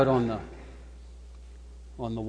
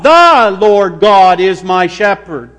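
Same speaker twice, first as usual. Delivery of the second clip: THE drawn out and punched loud; stress on THE; 5 dB louder, slower than usual. Shown as a demonstration. Preacher proclaiming the one God, stress on THE. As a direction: stretch "the" hard, then proclaim the rest slowly. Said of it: "Let's emphasize the".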